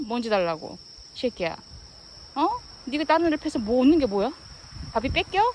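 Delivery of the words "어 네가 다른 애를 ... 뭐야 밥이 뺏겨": fast, louder mock scolding of the dog. Owner scolding the dog for fighting, mock angry fast.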